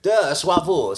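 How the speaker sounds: Swavul said SWAH-vool, laughing and high; mock French Swavul, SWAH-vool; French mispronunciation. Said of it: "did not pronounce it Swaver".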